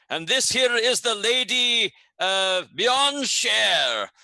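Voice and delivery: a put-on Garundi accent, yelled up to the guards; poor Garundi accent. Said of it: "In a poor Garundi, um, uh, accent".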